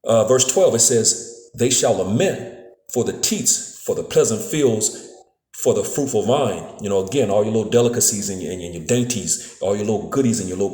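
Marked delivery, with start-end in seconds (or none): 1.5-6.6 slow, solemn scripture reading. Acted. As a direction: read the verse slowly, like Bible study. Reads verse twelve slowly.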